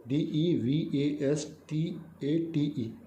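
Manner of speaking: each letter spelt out slowly and evenly; slow spelling. Shown as a demonstration. Teacher spelling डिवास्टेट slowly for the class. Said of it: "डिवास्टेट".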